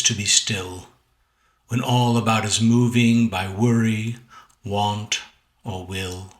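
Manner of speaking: measured sonnet recital with lingering words; unhurried, carefully weighted verse; poetry reading. Acted. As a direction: read your poem aloud, deliberately, pausing between phrases. Reads second sonnet aloud.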